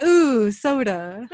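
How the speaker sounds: very slow, drawn-out ooh while laughing; greedy Sam. Retold or imitated. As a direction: drool over the soda, laughing. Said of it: "He's like".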